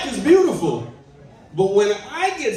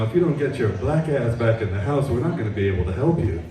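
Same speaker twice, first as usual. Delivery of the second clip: lower, stern phone warning from the bureaus; credit bureau voice; 4 semitones lower than usual. Retold or imitated. Credit bureaus calling the comic home, in a low stern scold. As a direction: scold him like a debt collector on the line. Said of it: "all three credit bureaus called me and said".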